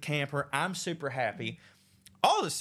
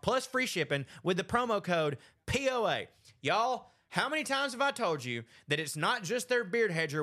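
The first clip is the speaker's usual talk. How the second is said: upbeat, punchy sponsor pitch; podcast ad read; 2 semitones higher than usual. Acted. Host pitching a grooming kit to listeners, upbeat ad read. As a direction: sell it like a lively sports promo.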